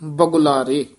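"ਬਗੁਲਾਰੇ" set apart after a halt; separated ending. Shown as a demonstration. Teacher completes the model verse, "ਬਗੁਲਾਰੇ" after a short pause. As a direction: say "ਬਗੁਲਾਰੇ" alone to close. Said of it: "ਇੱਥੇ ਠਮਕ".

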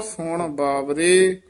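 slow ਸੁਣ ਬਾਵਰੇ, stop after ਬਾਵਰੇ; pause after ਬਾਵਰੇ. Shown as a demonstration. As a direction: hold ਬਾਵਰੇ, then break. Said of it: "ਇੱਥੇ ਵਿਸਰਾਮ ਹੈ".

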